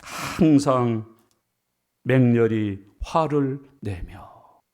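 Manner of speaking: 항상 drawn out very slowly, then 맹렬히 화를 내며 low and slow; slow emphatic quote. Shown as a demonstration. Preacher driving the verse home to the congregation, slow and heavy. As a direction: lay out each word slowly and heavily. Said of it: "맹렬히 화밖에 없어".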